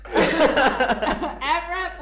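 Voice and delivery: laughing. Real, not acted. Host laughing through the question.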